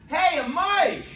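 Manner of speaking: delighted, high exclamation at the mic; suddenly noticing the mic, pitch jumps up; surprised. Real, not acted. Spotting a new microphone.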